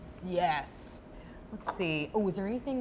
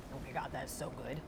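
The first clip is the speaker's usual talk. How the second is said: talking through a mouthful; words around a bite of food; mouth full; 5 semitones lower, 11 dB quieter than usual. Real, not acted. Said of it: "you have to do this with your mouth full".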